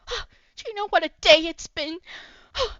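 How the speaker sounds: high, loud whining cry; dramatic wail. Acted. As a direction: Hoshi wailing to Miss Yun about his hair, high and loud. Hoshi wails about his hair.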